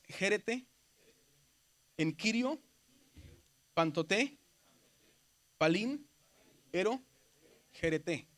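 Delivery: jerete, en kirio, pantoté said word by word with long pauses; Greek pronunciation demo. Shown as a demonstration. Teacher shows the class how to pronounce Greek, word by word. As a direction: sound out "palín, ero, jerete" slowly, mostly lifting each word's end. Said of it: "¿cómo se pronuncia?".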